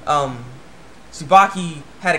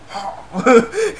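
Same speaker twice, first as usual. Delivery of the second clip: mock gasp; 7 semitones higher, 5 dB louder than usual. Boy shocked by what he sees.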